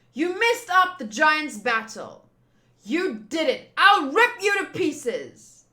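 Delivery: loud, snarling threat to the heroes; menacing villain threat. Acted. Villain threatening the crew, loud and menacing. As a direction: growl it out, slowing down on the rip.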